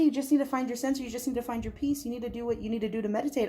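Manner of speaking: hurried, tumbling reassurance; talking fast. Real, not acted. Reader passing on Spirit's message too quickly, talking fast. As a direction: rush the words out without a break. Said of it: "I'm sorry I'm talking fast".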